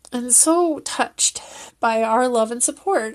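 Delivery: usual speaking voice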